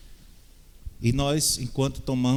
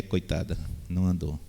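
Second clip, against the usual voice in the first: ordinary delivery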